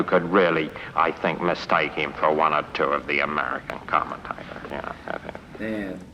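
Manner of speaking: radio commentator with a West Country burr; burred commentator voice, near American; John Arlott. Shown as a demonstration. Actor likening British commentator to Americans, burred radio voice. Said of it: "a radio commentator over here called John Arlott".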